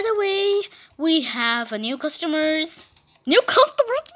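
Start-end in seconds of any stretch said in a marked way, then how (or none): 3.3-4.0 surprised new customer. Pretend. New character's reaction voiced.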